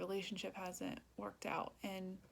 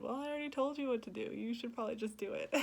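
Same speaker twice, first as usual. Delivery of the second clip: higher, quick, lightly teasing reply; loving, retold; 4 semitones higher, 3 dB louder, faster than usual. Retelling God's loving advice to her, lightly teasing. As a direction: nudge kindly, amusement close behind. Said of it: "he just very lovingly said".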